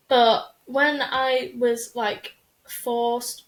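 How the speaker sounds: slow robotic monotone. Real, not acted. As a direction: drag the words out like a robot. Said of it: "why did I sound like a robot?".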